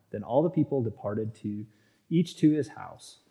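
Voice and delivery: steady, even Bible reading voice; scripture reading. Acted. Preacher reading Second Samuel to his congregation, even scripture reading. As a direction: read the passage out evenly to the congregation.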